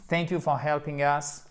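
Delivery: "helping" with its ING fully sounded; clear ING ending. Shown as a demonstration. Teacher modelling the phrase, "helping" with clear ING. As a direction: keep the ending of "helping" audible. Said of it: "mettez bien le I N G".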